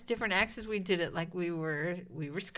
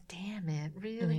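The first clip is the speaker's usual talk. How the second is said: whispered groan; 2 semitones lower, slower than usual. Retold or imitated. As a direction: whisper it, mortified. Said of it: "I'm looking at these guys going".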